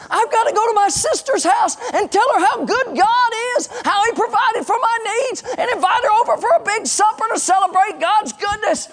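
high-pitched, gushing praise in the widow's role; overjoyed. Acted. Widow off to tell her sister of God's goodness, overjoyed.

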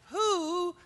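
exasperated outburst. Retold or imitated. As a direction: let it burst out in exasperation. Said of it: "And I just said".

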